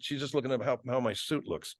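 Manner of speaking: ordinary talk, nothing marked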